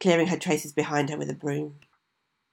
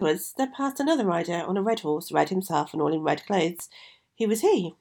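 put-on curious young girl; 2 semitones higher than usual. Vasilisa asks again.

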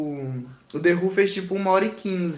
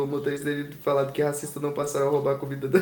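laughing while reading; 4 semitones lower, 5 dB quieter, faster than usual. Real, not acted. Reading news headline, cracking up.

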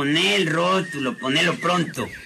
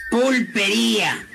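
drawn-out dictation, pitched up; dictating; 5 semitones higher than usual. Acted. Shop owner dictating his sign to the painter, dictating. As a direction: sound out the sign word grandly.

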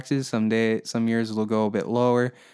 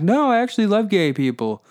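mock-earnest politician, pitched way up; mock Hillary Clinton; 3 semitones higher than usual. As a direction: insist in a hammed-up high voice. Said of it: "and then she was like".

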